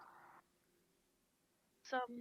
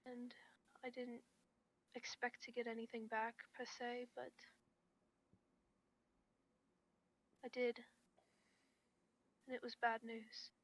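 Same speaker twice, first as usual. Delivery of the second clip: soft-spoken. Acted. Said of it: "I hope I'm not talking too softly".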